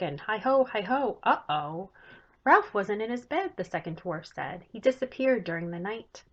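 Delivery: put-on lively read-aloud for children; story narration. A narrator's reading. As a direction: tell the story brightly to young listeners. Author reads her chapter book aloud.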